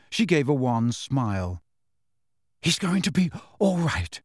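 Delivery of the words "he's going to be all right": tired and weak; faint, worn-out reassurance. Acted. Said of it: "her voice weak with tiredness".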